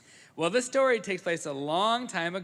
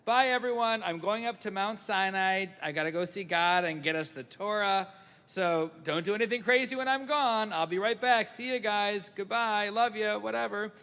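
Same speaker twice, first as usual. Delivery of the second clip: a higher, breezy Moses saying goodbye; lightly voiced Moses; 5 semitones higher, 3 dB louder than usual. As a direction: toss off the farewell like a casual leader. Rabbi voices Moses leaving.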